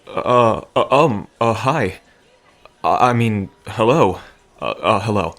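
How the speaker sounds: tongue-tied, nervous stammering; flustered stammer. Acted. Bartender stammering nervously on meeting the pretty stranger. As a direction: stumble over the words, caught off guard.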